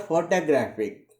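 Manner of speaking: "photographic" with the third syllable "graph" stressed. Shown as a demonstration. Teacher showing learners the word stress, "photographic" stressed on "graph". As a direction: put the weight on "graph" in "photographic". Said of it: "the stress is on the syllable graph".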